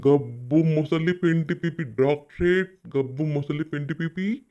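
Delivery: slow, drawn-out taunt; real jeer, dragged out slowly; taunting name-calling. Real, not acted. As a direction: stretch out the insulting nickname. Taunting with a mock title, repeated.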